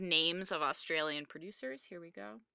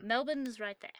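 put-on higher-pitched amateur Australian accent, r's dropped; attempted Australian accent; 5 semitones higher, 3 dB quieter than usual. Host showing co-host the map, in a higher, attempted Australian accent. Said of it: "I'm really working on it".

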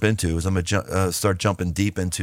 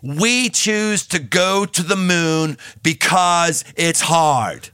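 put-on slow, higher Boston accent, hard stretched; JFK Boston accent; 6 semitones higher, much slower than usual. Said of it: "with his Boston accent".

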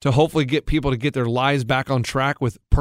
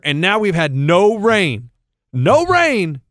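put-on old man voice; 3 semitones higher, slower than usual. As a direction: complain like a cranky old man. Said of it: "my old man part of me".

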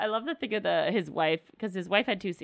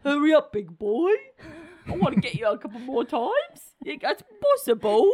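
rising question tune on "possible"; asked like a question; 7 semitones higher, 4 dB louder than usual. Acted. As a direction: end "It's possible" with a high rising question lilt. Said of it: "maybe ask it like a question".

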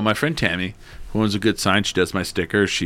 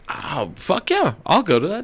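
eager yes; 8 semitones higher than usual. Retold or imitated. Accepting his friend's ticket offer, eager.

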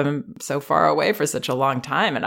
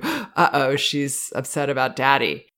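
mock alarmed gasp. Parent overreacting to child's question, mock gasp of alarm. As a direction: imitate a worried parent with a sharp gasp. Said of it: "lurches forward to".

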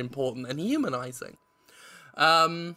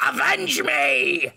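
drawn-out, raised goblin cry; mock-menacing movie villain plea; Willem Dafoe; 8 semitones higher, 3 dB louder, much slower than usual. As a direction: stretch it out in a high villain impression. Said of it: "I do a Willem Dafoe voice".

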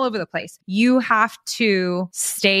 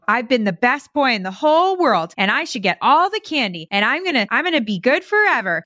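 put-on higher childish bragging voice; mock toddler boast; 5 semitones higher than usual. A toddler bragging to mom, higher mock child voice. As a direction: play a small child promising to be good. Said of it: "And they're telling you".

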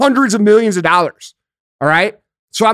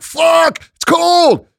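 higher yelp of cold shock; jumping into a cold pool, startled; shocked by cold water; 9 semitones higher, much slower than usual. Retold or imitated. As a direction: gasp it like jumping in icy water. Cold pool reaction imitated.

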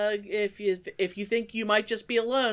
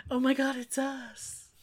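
1 mock surprise; 4 semitones higher, 5 dB quieter than usual.

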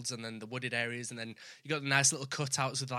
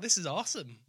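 own northern; 3 semitones higher than usual. Shown as a demonstration. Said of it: "you're gonna take the mick out of me".

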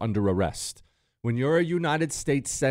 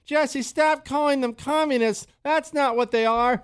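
high, whiny mock of a timid emailer; whiny GOP weenie. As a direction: mimic a scolding wimp, pitched way up. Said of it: "some loser, low-T G O P weenie emailing".

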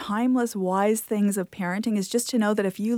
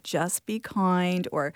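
calm mantra; slower than usual. Shown as a demonstration. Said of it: "have a little mantra you play in your head".

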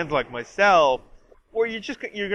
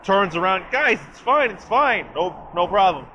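false bravado; 4 semitones higher, 4 dB louder than usual. Retold or imitated. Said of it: "Xavier just goes".

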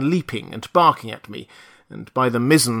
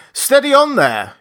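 higher and louder, a sharp warning call; remonstrating cry; 13 semitones higher, 5 dB louder than usual. Acted. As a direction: cry out to stop the fight. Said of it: "he cried in a tone of remonstrance".

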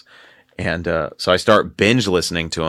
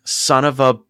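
higher-pitched exasperated mock curse; mildly hammed-up annoyance, pitched up; retold frustration; 6 semitones higher, slower than usual. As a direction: act out cursing your bad luck. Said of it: "I was so mad".

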